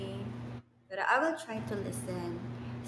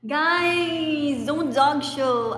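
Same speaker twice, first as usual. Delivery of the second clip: pleading; 4 semitones higher, 7 dB louder, much slower than usual. Real, not acted. Pleading with chat.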